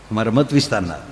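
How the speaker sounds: normal talking voice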